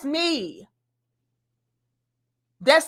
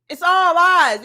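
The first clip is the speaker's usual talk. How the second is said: loud emphatic; 3 semitones higher, 6 dB louder than usual. Real, not acted. Calling the claims lies.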